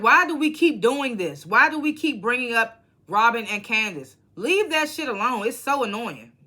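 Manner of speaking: venting at the cast again; exasperated rant. Retold or imitated. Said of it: "I'm just like".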